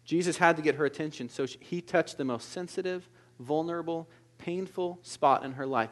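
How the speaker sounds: hushed tender. Acted. Tender turn after excitement.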